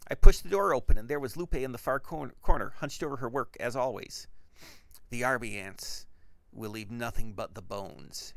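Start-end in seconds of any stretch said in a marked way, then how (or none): 5.1-8.3 slow, low and softer ant-swarm voice; menacing hiss. A narrator's reading. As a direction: let the threat creep out slowly. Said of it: "she hissed".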